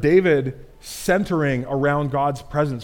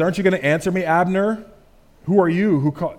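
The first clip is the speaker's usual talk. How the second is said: raised voice calling across; David calling out to Abner across the valley, raised voice; 4 semitones higher, 3 dB louder than usual. Acted. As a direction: call out across the distance. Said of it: "he calls out to Abner".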